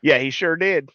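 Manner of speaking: hint of a Southern coach talking down to a co-host; Southern accent. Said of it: "talking with a Southern accent".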